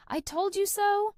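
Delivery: high, loud, energetic exclamation; enthusiastic. Shown as a demonstration. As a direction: crow it with enthusiasm. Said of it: "adds enthusiasm and energy to conversations".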